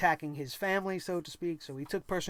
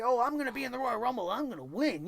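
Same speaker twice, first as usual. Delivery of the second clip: quick, higher, mocking wrestler brag; mocking wrestler boast; 5 semitones higher, faster than usual. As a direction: parrot their empty boast with a sneer.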